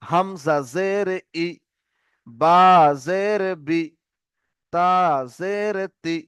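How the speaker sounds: slow spelling ending on short "ই", "বি", "তি"; letter, pause, then a brief i syllable; short i drill. Shown as a demonstration. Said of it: "এইভাবে জের দিয়ে পড়বো". (হ্রস্ব ই দিয়ে "ই", "বি", "তি")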